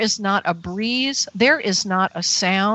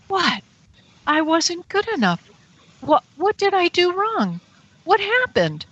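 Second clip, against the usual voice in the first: high-pitched, hurt disbelief; dismayed; 9 semitones higher than usual. Retold or imitated. Woman left alone in the street, dismayed. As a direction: plead for a reason, pitch raised. Retells dismay at being abandoned.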